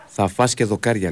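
slow, measured restatement. Real, not acted. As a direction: say it over slowly for someone who missed it.

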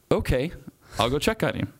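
retold "fine, I'll do it" with lifted pitch; obedient reply. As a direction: answer the inner voice, giving in. Acts out his reply to the voice.

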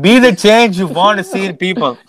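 slogan in a put-on South Asian accent. Comic mocking a candidate's slogan, South Asian accent. Mimicking politician's slogan again.

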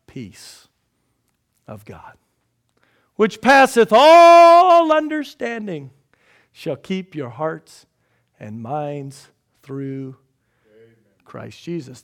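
slow, hushed then swelling loud on "passeth"; dramatic scripture reading. Acted. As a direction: read it like a climax, slowly.

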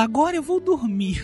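soft, slow sultry announcement; gentle, drawn-out seductive imitation; mock seductive. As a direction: purr it slowly, imitating a flirt. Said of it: "Ela sensualiza pro vento".

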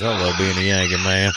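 ordinary talk

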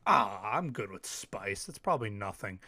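cocky. Retold or imitated. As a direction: shrug it off smugly. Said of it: "me being the egotistical maniac".

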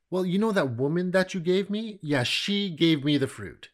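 mock defensive Adam passing it off; half-hearted excuse. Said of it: "sorry, half-hearted confession".

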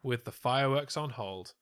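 lightly performed poem reading; limerick recital. Acted. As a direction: recite it with mock ceremony. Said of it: "We interrupt this segment for a limerick".

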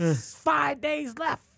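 ominous mock announcer. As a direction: stretch every word like a cursed prophecy.

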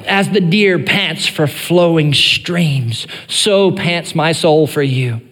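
slow, solemn quoted verse. Shown as a demonstration. Pastor quoting the familiar verse to the congregation, slow. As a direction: lay the verse out slowly. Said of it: "You've heard that verse before".

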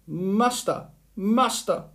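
high, alarmed magic harp calling. A narrator's reading. Harp calls its master, high and alarmed. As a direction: cry out high for help. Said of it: "called out".

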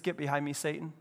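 mock-kindly rebuke. Jesus answers Peter so kindly, understated rebuke. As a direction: deliver the rebuke softly, as if kindly. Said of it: "Jesus so kindly says".

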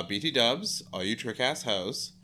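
a hint of a brash principal on the PA; lightly voiced announcer greeting the students; imitating Weatherby. Principal calls out over the PA, lightly voiced. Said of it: "that's exactly how he said it".

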